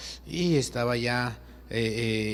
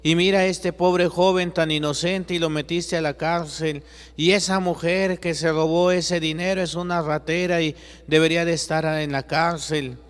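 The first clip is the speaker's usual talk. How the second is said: angry protest; 4 semitones higher than usual. Acted. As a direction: fight back against the answer. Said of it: "Y le dice Juan". (Juan protesta ante Jesús, indignado y en voz alta)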